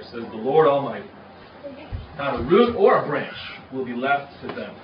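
measured public Bible reading; declaimed scripture with weighty pauses. Real, not acted. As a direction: read verse out deliberately to the congregation.

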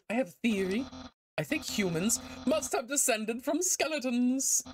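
theatrical, enthusiastic skeleton voice; eager skeleton character. Acted. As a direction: proudly explain a pet theory, pitch lifting. Voices game character's dialogue.

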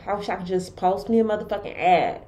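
muffled behind a mask; talking through a cloth mask; through a face mask. Real, not acted. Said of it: "excuse me having on this, uh, face mask".

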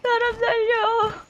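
slow, high sobbing cry; crying for help. Pretend. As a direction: wail it out through tears. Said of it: "애타게 사람 살려를 외쳤다".

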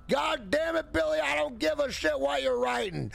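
shouting like a fed-up mother; angry mom yelling. Retold or imitated. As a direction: yell at your lazy son.

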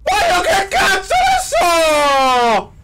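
loud, slow exasperated yell; frustrated shout. Real, not acted. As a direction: shout it out in disbelief. (urlo esasperato)

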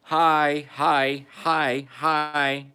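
high squeaky cat greeting. Retold or imitated. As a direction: say hi like a little cat. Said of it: "The cat said".

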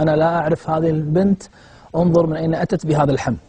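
quick, brushing-off denial; dismissive denial. Retold or imitated. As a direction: shrug him off fast. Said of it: "فقلت له". (إنكار سريع مستخف)

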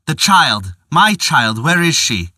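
desperate father crying out; cry in agony. Acted. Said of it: "he cried in agony".

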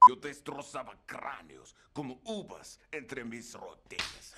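susurra entre risas, lento; riendo. Retold or imitated. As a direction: se ríe mientras imita a Zangief. Voz de Zangief entre risas. (Zangief dicho en susurro entre risas)

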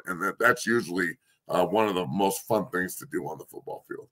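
losing voice, hoarse and low; strained, hoarse fading voice. Real, not acted. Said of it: "I'm losing my voice here".

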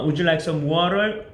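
very slow with a rising "water"; practice drill question. Shown as a demonstration. Teacher leads a practice drill, asking very slowly. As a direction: stretch "would you like some water" for the class to repeat. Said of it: "연습을 한번 해봐야겠죠".

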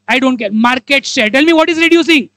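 normal talking voice

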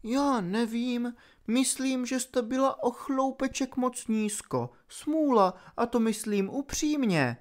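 high, soft, sly villainess voice; a cruel fairy toying with her victim; mocking villainess. A narrator's reading. Opal mock sympathy. (vysoký, posměšný hlas padoušky)

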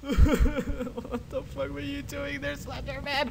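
slow, high-pitched startled whine; high squeal after a scare. Real, not acted. Recovering from jump scare.

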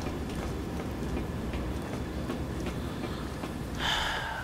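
very long, soft exhale; weary sigh. Real, not acted. Gamer trying to settle after being shot, long weary sigh. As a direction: slowly breathe out the frustration. Player calming down after outburst.

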